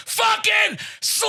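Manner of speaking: high, sustained metal-fan bellow; drawn-out scream. Retold or imitated. Contestant repeats his team name for the host, screaming. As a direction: scream it high, stretching the last word out long. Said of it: "Maybe you didn't hear me".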